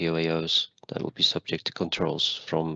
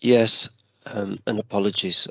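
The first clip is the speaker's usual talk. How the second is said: breathless, catching each breath; short of breath; 3 dB louder than usual. Real, not acted. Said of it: "I'm slightly short of breath".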